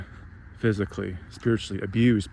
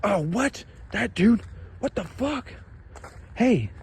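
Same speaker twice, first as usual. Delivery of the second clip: high, incredulous mock outrage; a mocking, disbelieving voice at a much higher pitch; 10 semitones higher, slower than usual. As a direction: scoff at it like it's absurd.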